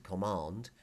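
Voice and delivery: "command" with a long "ah", as in "com-MAHND". Shown as a demonstration. Teacher repeating the English word, "command" with long "ah". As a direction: open the vowel in "command" to "ah". Returns to the first vowel.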